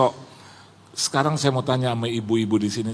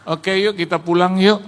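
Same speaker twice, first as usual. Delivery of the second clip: retold guest announcement; 6 semitones higher, 5 dB louder than usual. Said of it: "salah satu tamu saya bilang begini".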